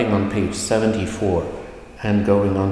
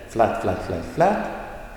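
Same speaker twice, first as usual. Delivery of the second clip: "flat" repeated evenly and slowly; slower than usual. Shown as a demonstration. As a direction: say each "flat" level, like steady steps. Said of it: "there will be a falling tone".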